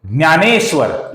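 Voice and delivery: ज्ञानेश्वर starting "dnyaa"; Marathi pronunciation. Shown as a demonstration. Teacher giving a Marathi example, ज्ञानेश्वर with "dny". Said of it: "हम मराठी उसको क्या बोलते हैं".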